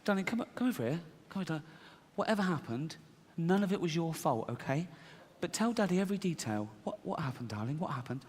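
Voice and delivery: softly coaxing, anxious-to-know parent; concerned father. Acted. Father asking his little girl what happened, softly concerned. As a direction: gently urge a child to tell.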